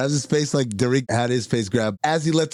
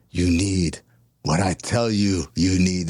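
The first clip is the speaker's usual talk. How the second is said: breathless; 7 semitones lower, slower than usual. Retold or imitated. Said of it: "in a breathless voice".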